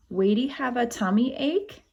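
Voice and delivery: lightly voiced toddler, "Wadey" for Marley; toddler talk. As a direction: ask it like a little child with a lisp. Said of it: "He says "Wadey" like Marley".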